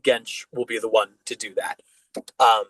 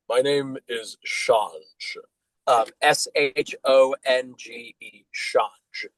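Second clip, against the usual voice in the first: slow orc intro; much slower than usual. Acted. Orc introduces himself slowly.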